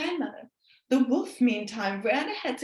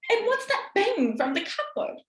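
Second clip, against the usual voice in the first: put-on girl's voice; 9 semitones higher than usual. Girl asks Will.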